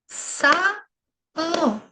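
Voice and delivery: Сало split as са-ло, clapped out slowly; syllable by syllable. Shown as a demonstration. Teacher to children, spelling out Сало by syllables. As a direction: clap out Сало in two slow beats. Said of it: "повільно, по складам".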